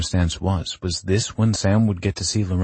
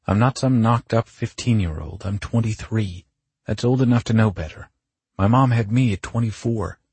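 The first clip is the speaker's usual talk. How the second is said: higher, insistent self-defence; indignant protest; 4 semitones higher, 3 dB louder than usual. Acted. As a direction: argue the point, mildly exasperated. Indignant protest in acted argument.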